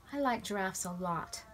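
talking through a mouthful of donut; words round a bite of food; mouth full. Acted. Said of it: "Lindy spoke with her mouth full".

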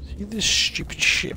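high, incredulous complaint; exasperated. Real, not acted. Gamer grumbling at a confusing puzzle, high exasperated disbelief. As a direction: throw up your hands at the stupid puzzle.

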